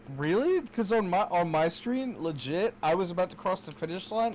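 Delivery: high, loud disbelieving complaint; loud protest. Real, not acted. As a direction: argue it, fired up. Protesting a race result.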